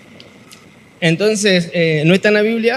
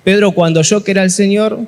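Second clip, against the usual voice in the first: measured, slightly louder Bible reading; scripture reading; 4 dB louder than usual. Acted. Pastor reads John twenty-one to youth, formal reading. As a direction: read the passage steadily to the congregation.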